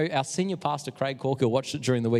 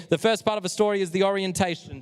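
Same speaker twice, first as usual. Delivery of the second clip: clear, higher and louder like a teacher setting up a drill; 6 semitones higher, 4 dB louder than usual. Shown as a demonstration. Youth pastor teaching Josh K the parts of a story, teacher voice. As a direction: say it for the class to repeat. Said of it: "You're gonna repeat after me".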